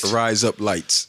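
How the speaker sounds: "Rise Up Lights" stretched out slowly; slow mock Aussie. Shown as a demonstration. Friend repeating the phrase for laughs, slowly. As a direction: drawl "Rise Up Lights" like razor blades. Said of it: "that's how I found the Rise Up Lights".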